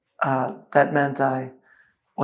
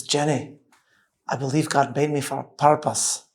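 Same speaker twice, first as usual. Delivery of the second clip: put-on Scottish accent. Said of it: "I have to do it in the Scottish accent".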